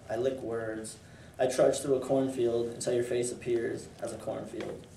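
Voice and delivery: measured, even poem recitation; poetry reading. Acted. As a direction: read it as verse, pausing between phrases. Reads own poem aloud.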